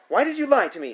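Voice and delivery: high, loud accusing question; angry demand. A narrator's reading. Sitter enraged by the boy's confession, angry demand. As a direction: demand an answer, outraged. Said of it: "she demands".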